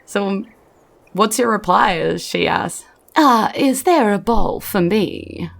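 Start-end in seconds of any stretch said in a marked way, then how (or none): 3.1-5.5 put-on drawn-out request from a hungry old crone; a hungry old woman asking again for food. GM repeats old woman's question.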